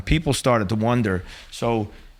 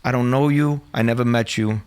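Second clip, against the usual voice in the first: firm gangster disowning him; coldly disown him like a mobster; emphatic gangster denial; gangster act. Retold or imitated. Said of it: "as a gangster would do".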